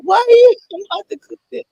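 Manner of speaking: high, loud laughing question; laughing off mic. Real, not acted. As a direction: laugh while turning away.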